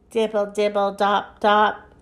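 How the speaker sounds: even, monotone raindrop patter; rhythmic rain imitation; rain dripping. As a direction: drip the words rhythmically. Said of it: "sound like the rain".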